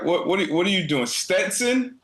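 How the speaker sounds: incredulous. Real, not acted. Mocking disbelief at the pick.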